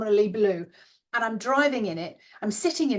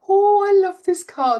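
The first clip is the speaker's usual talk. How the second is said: high, loud burst of delight; big rapturous exclamation; delighted gush; 10 semitones higher, 11 dB louder than usual. Acted. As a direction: swoon out loud with joy. Gushing aloud in imagined test drive.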